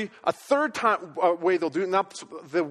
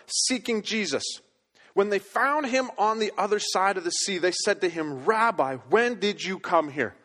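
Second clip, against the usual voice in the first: measured reading of the Gospel passage; scripture reading. Acted. Preacher reads scripture aloud.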